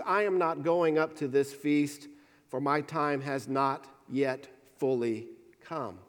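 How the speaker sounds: measured reading of John to the congregation; scripture reading. Acted. Pastor reads John to the church, steady scripture reading.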